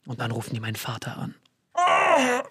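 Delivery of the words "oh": high drawn-out "oh" of dread; dismayed groan. Acted. Boy hearing his father is being called, dismayed groan.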